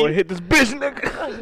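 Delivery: high, loud mock-dad order; pushy dad. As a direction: egg the son on, hammed-up. Acting out pushy dad offering weed.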